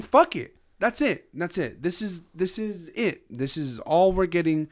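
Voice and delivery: fed-up voice. Retold or imitated. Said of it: "she's saying".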